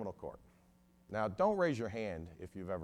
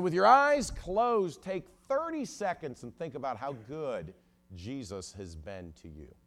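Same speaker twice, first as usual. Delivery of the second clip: imitated pulpit appeal, fading from a shout; preacher's exhortation; 4 semitones higher, 7 dB louder than usual. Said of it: "the preacher had us close our eyes".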